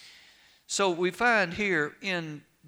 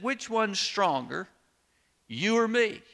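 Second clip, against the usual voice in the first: challenging high voice; 6 semitones higher than usual. Retold or imitated. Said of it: "looked at the linguine with the clam sauce and said".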